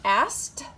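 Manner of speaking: loud "Asked" ending in a crisp T; exaggerated word endings. Shown as a demonstration. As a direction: punch the T at the end of "Asked". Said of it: "Wait a second".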